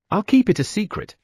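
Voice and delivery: high, cute cat voice. A narrator's reading. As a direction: chirp it like a little cat. Cat character speaks.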